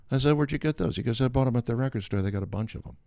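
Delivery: ordinary talk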